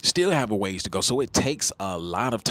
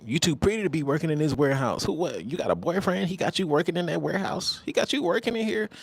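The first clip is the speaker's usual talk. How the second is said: raised, hammed-up pickup-line voice; mock smooth talker; 6 semitones higher than usual. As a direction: play the slick guy sweet-talking her. Acted flirting man, voice rising.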